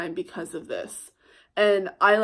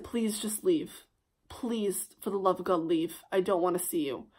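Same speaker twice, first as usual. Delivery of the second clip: whispered plea; 3 semitones lower, 6 dB quieter than usual. Retold or imitated. To the ex at her door, whispered pleading. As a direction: breathe it out, worn down. Begging ex to leave.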